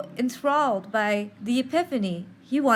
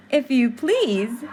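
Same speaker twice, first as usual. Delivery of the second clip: slow, prim little reply; a touch of primness, drawn out; slightly prim; 3 dB louder, slower than usual. A narrator's reading. Wendy answers Peter's offer of a kiss, prim and slow. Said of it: "with a slight primness".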